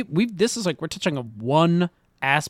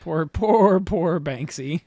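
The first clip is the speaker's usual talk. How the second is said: mock pity; much slower than usual. Real, not acted.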